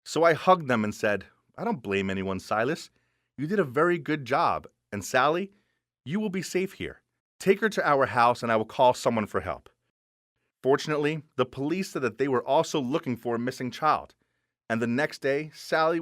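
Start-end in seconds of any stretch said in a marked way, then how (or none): 1.6-9.7 mild, tender big-sibling tone; gentle reassurance. Acted. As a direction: comfort the children calmly. Hugging and reassuring both children.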